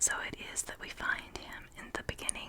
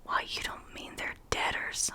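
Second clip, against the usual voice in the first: scornful; 4 dB louder than usual. Acted. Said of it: "Stanley was scornfully and bitter".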